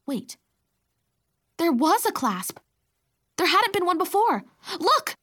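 high, loud amazement; excited discovery. A narrator's reading. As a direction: exclaim it as a sudden find. Discovers clasp on the magic bracelet.

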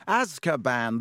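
scornful, can't-believe-you tone; disbelieving. Acted. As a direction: say it like he's an idiot. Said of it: "looking at him in disbelief".

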